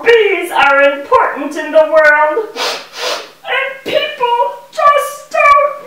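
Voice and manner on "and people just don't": mock lament. Bee laments ignorance.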